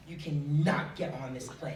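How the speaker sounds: lightly voiced low German-accented official; a hint of deep German officialdom. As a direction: imitate a deep-voiced German gate agent. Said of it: "voice in a German accent".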